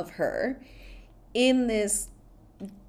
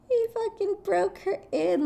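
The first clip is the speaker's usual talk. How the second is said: laugh-crying; 12 semitones higher than usual. Real, not acted. Laughing at the film's plot.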